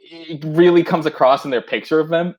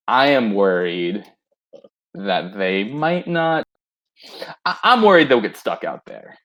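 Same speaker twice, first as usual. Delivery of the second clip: spoon in mouth; 7 semitones lower than usual. Acted. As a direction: speak with a spoon in your mouth. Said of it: "Mikael goes".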